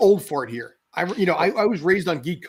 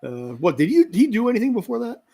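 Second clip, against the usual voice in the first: feigned cluelessness with a raised pitch; mock ignorance, sarcastic; 5 semitones higher than usual. Geek pretends not to know the old Picard actor, sarcastically clueless. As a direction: play dumb, puzzling it out sarcastically. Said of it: "I'm being sarcastic".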